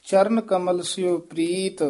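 one measured phrase resting on Preet; pause after Preet. Shown as a demonstration. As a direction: come to a full stop at Preet. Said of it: "ਇੱਥੇ ਵਿਸਰਾਮ ਲਾਉਣਾ ਹੈ".

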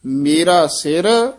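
slow ਮੇਰਾ ਸਿਰ with a small catch after ਸਿਰ; slow, measured ਮੇਰਾ ਸਿਰ then a short halt; slight halt after ਸਿਰ. Shown as a demonstration. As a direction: pause briefly on ਸਿਰ. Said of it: "ਥੋੜ੍ਹੀ ਠਮਕ ਲਾ ਦੇਣੀ ਹੈ".

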